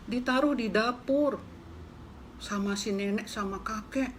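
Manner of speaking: very high squeaky little mouse calling out. Acted. Mouse calling out to the hen, high and squeaky.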